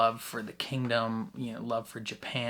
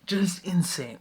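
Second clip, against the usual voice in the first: awed whisper; 6 semitones higher, 4 dB louder than usual. Real, not acted. Awed reaction to show.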